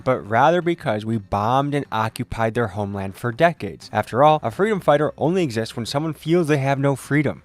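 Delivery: measured, articulate documentary voice-over; scripted news commentary. Real, not acted. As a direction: read it as a reasoned explainer to viewers. Reads scripted commentary to viewers.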